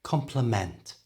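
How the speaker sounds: "Complement" with a full, weighted MENT; stress at end. Shown as a demonstration. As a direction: lean on the final syllable of "Complement". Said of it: "has more stress at the end".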